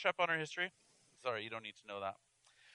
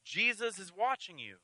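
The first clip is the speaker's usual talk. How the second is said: eerie voice; 6 dB quieter than usual. Acted. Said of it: "he heard a voice saying".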